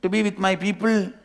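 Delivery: high, loud frightened screaming. Acted. Cub screams at the lion to let him go. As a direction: scream it out, desperate to get away. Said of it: "That fellow starts screaming".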